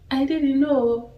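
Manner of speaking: high, punchy Nigerian accent. Shown as a demonstration. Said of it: "In the Nigerian accent".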